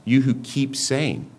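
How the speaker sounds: slow down and press "keep saying"; stress on keep saying. Shown as a demonstration. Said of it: "It's not you who said one time".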